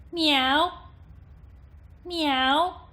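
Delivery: loud, high, piercing meow; twangy cat meow. Shown as a demonstration. Voice coach demonstrating twang, loud piercing cat meow. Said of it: "and then with twang".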